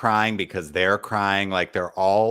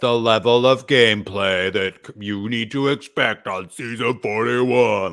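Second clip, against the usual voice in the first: pumped-up host; 3 semitones higher, 4 dB louder than usual. Retold or imitated. Host hyping future players, mock announcer voice. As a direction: pump it up like a show host. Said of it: "he's really pumping it up".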